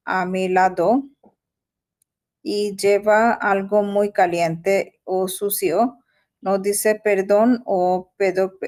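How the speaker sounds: slow, careful learner's reading; halting reading aloud. Real, not acted. Learner reading Spanish text to tutor, slow halting reading. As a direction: read word by word, with stumbles and restarts.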